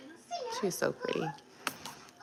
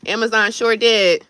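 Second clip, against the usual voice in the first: fed-up rant; 3 semitones higher, 5 dB louder, slower than usual. Real, not acted. Ranting at Amazon's charges.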